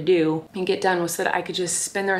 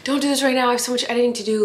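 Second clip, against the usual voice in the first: mock plea; 5 semitones higher, 4 dB louder, much faster than usual. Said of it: "I'm like".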